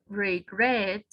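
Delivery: Regret with the beat on GRET; teacher demonstrating Regret, second syllable stressed. Shown as a demonstration. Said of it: "Acá está en regret".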